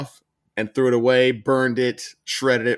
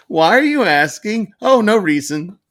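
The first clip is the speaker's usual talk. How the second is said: high, slow feigned innocence; mock innocent; 9 semitones higher, 7 dB louder than usual. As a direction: play coy and guilty. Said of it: "acted exchange with Paul".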